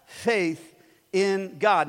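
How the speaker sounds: very slow, weighty reading; preacher reading Jesus' words; slow solemn pronouncement. Acted. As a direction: stretch out Have faith in God. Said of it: "That's when Jesus says".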